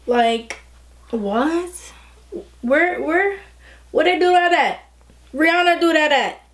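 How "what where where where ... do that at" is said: high, incredulous sassy questions; hammed-up shock at the blend; mock disbelief. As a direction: act amazed, pitching each where up high. Playful disbelief at how fast it blends.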